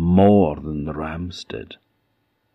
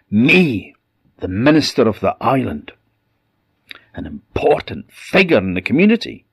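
indignant rebuke; 2 semitones higher, 4 dB louder than usual. Acted. Minister condemns his dying wife.

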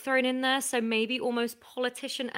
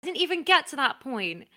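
hammed-up offended creator telling off a critic; mock indignation. Show creator scolds Harvey for knocking the idea, mock indignant. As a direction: play wounded outrage, building in pitch.

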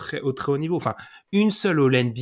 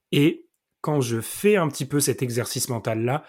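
voice giving out. Real, not acted. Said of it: "alors que j'ai plus de voix".

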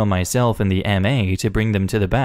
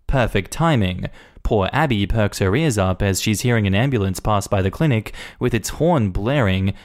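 ordinary delivery, nothing marked

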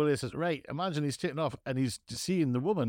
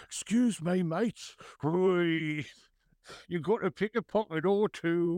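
mock Artful Dodger pickpocket patter; Dickens street urchin; 3 semitones higher, slower than usual. Mate teasing his friend's impression, as a Dickens street urchin. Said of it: "You sound like somebody from a Dickens song".

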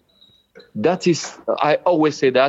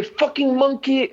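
mimicked slur; 9 semitones higher than usual. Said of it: "And then he say".

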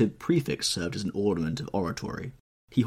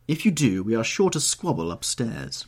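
cried out; 4 semitones higher, 3 dB louder than usual. Acted. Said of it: "cried Lady Narborough from the door".

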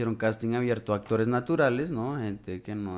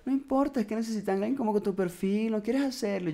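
much higher, quick coaxing voice; high girly voice; 11 semitones higher than usual. Retold or imitated. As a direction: coax him in a high, fast girly voice. Friend insists on casting, voiced.

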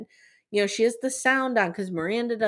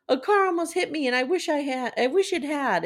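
higher-pitched retold distress; distraught; 7 semitones higher than usual. Host retelling a son's call to his mother, distraught. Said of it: "he's clearly very distraught".

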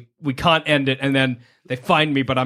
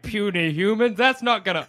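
booming arrogant alien overlord; 5 semitones higher than usual. Retold or imitated. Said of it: "Galactus being like".

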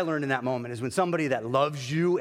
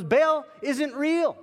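higher, louder and slow; emphatic declaration; 12 semitones higher, 6 dB louder, much slower than usual. Retold or imitated. God correcting the pastor, high, loud and slow. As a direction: hammer each word home slowly.

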